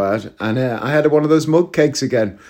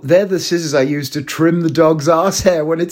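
laughing punchline; 5 semitones higher than usual. Retold or imitated. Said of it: "she goes".

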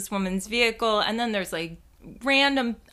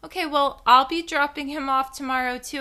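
much higher, airy and offhand; casual breezy; 6 semitones higher than usual. Retold or imitated. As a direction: play it cool with the teacher. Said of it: "So I casually go".

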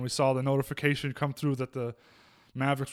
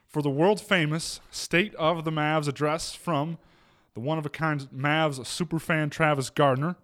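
ringmaster; 2 semitones higher than usual. Pretend. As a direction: announce the star act under the big top. Grand showman intro of segment.

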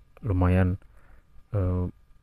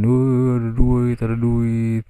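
excited; 4 semitones higher, slower than usual. Retold or imitated. Classmates finding dust like money.

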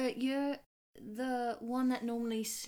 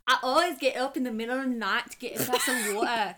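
tried Scottish; 7 dB louder, faster than usual. Acted. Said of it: "I tried Scottish there".

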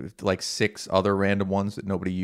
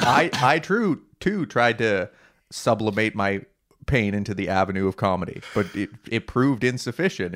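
mock New Zealand accent. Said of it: "You're like".

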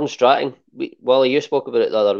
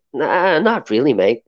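slow, bad Australian accent; terrible Australian accent; slower than usual. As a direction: have a poor go at an Australian accent. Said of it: "the worst Australian accent ever".

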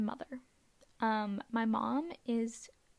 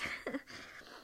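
teary laugh; 7 dB quieter than usual. Real, not acted. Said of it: "I have to stop crying".

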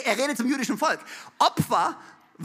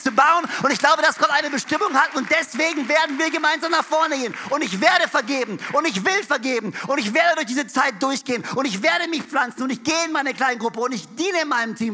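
louder, rising sermon climax; fervent preacher's vow, louder; preaching at full force; 4 dB louder than usual. Acted. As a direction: preach it out to the church, building up. Preaching build-up.

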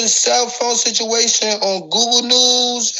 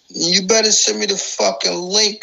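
rough demand; faster than usual. Real, not acted. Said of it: "stop talking like that".

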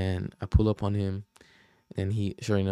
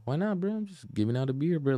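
softer, higher-pitched placating plea; calming him down; 6 semitones higher, 4 dB quieter than usual. Retold or imitated. To a hostile guy over beers, calming him down. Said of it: "like, calm him down".

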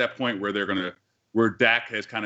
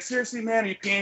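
mock Joe Buck; 10 semitones higher than usual.

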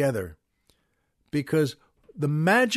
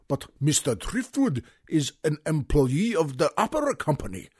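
light German accent, mildly imitated; a hint of a thick German accent, recalling the film; Sig Rumen German accent. Quoting Sig Rumen's film line in a mild German accent. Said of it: "a thick accent".

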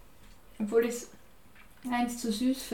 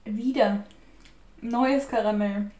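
chewing sticky toffee; 3 dB louder, slower than usual. Real, not acted. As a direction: mouth full of caramel. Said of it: "Jetzt hab ich Karamell in meinen Zähnen".

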